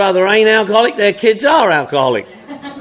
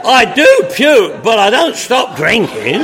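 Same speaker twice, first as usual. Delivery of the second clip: loud punchline; 4 dB louder than usual. Real, not acted. Punchline to laughing audience.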